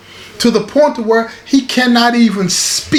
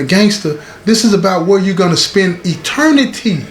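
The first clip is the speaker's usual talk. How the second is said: earnest chaplain's counsel; 3 semitones lower than usual. Retold or imitated. Chaplain counsels Gary, leaning forward.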